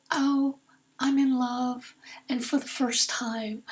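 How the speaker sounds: slow, lightly voiced elderly mother, dreamy; a hint of an old mom newly smitten; mother in love. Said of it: "her voice sounded different".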